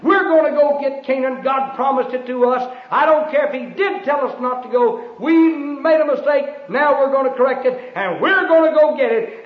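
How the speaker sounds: defiant people. Acted. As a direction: throw it back like stubborn rebels. People defy God's command.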